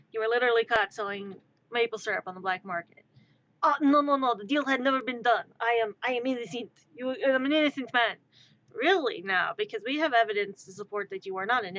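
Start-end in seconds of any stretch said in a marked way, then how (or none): 3.6-8.2 pleading mock French Canadian accent; fake French accent. Accused smuggler pleading innocence, fake French accent. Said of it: "my attempt at a French accent".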